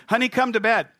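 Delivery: sweetly calling the wife to bed, hammed up; sing-song call to wife. Husband calling his wife to bed, high sing-song.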